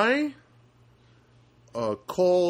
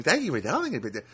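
mock phone-agent courtesy; lightly mocking clerk imitation; fake politeness; 4 semitones higher than usual. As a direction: parrot the scripted thanks. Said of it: "I just hate that fake, fake politeness".

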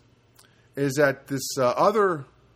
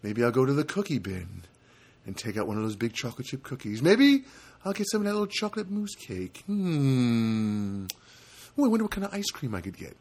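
imitating his own thoughts; 4 dB quieter than usual. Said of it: "and I'm thinking".

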